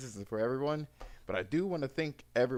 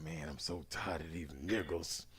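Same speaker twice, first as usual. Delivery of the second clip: mock friend voice; 8 semitones lower, 10 dB quieter than usual. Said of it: "He was like".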